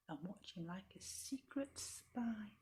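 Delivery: slow hushed whisper. A narrator's reading. Narrator whispering about the secret spy. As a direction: breathe it like a secret.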